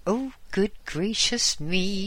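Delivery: put-on high, startled old lady cry; startled exclamation. Old lady startled by her parrot, high exclamation. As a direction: gasp it out in fluttery surprise. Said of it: "she exclaimed".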